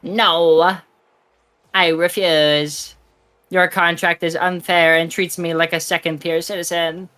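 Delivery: slow, even robotic read. Acted. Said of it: "Why did you read it like a robot?".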